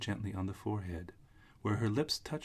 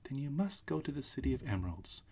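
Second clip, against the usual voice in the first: put-on little old witch; 6 semitones higher than usual. Witch figure, high voice.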